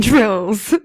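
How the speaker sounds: laughing. Real, not acted. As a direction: crack up at the idea of Narcan drills. Laughs at her own idea.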